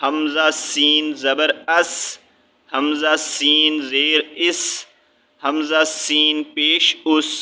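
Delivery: اس ending on a hissing, whistling س. Shown as a demonstration. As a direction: let the س of اس whistle. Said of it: "یہاں پہ سیٹی کی آواز نکالنی ہے". (اس میں س کو سیٹی کی آواز کے ساتھ)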